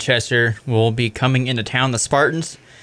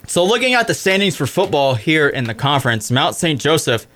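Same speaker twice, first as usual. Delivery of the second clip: hiccupping mid-sentence; fighting off hiccups. Real, not acted. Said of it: "I got the hiccups".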